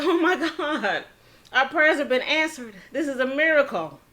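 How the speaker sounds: elated. Retold or imitated. Family hearing the fine will be paid, overjoyed. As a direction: gush like a prayer was answered. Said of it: "Super excited. Extremely, extremely happy".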